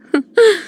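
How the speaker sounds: short, high-pitched chuckle; amused chuckle. Acted. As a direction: let out a brief amused laugh. Amused character before conceding defeat.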